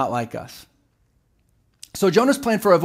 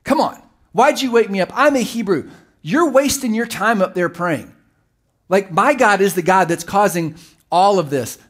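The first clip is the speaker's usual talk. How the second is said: higher, louder, cocky and dismissive; mock arrogant prophet brushing off the sailors; 4 semitones higher, 5 dB louder than usual. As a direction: talk down to them like Jonah would. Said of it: "it probably came off like".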